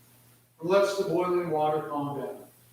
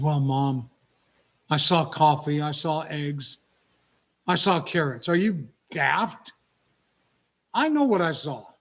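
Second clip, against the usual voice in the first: indignant; 2 semitones lower, 5 dB louder than usual. Retold or imitated. Daughter snaps back at mother.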